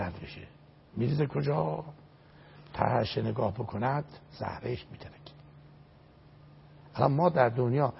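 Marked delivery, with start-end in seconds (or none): 2.7-5.3 hushed, awed warning; hushed whisper. Acted. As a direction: drop to a breathy whisper on the last words. Warning about looking down from bridge.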